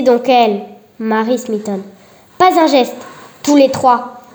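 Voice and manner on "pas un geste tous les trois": pin them in place with the order; insistent order. Acted. Marie insists the three stay still, loud firm order. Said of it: "insista-t-elle".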